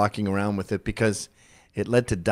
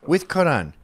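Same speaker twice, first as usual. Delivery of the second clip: higher, choppy mimicry in a mock Arab accent; 4 semitones higher than usual. Host mocking the actress in the clip, mock Arab accent. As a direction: parody her put-on Arab accent in broken phrases.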